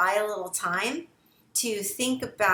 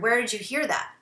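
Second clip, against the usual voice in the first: concerned tone; 2 semitones higher, faster than usual. Shown as a demonstration. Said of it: "do you sound concerned".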